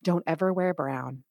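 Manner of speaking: a light imitation of a doting grandmother; gentle grandmother. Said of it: "hold my face very gently and be like".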